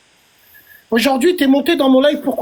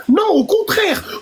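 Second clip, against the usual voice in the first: high pitched protest, slowed; emphatic outburst; 7 semitones higher, slower than usual. Real, not acted. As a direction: cry out the denial. Heated live argument.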